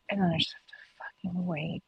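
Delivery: hushed frustrated whisper. Real, not acted. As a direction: breathe it out in a whisper. Whispered complaint.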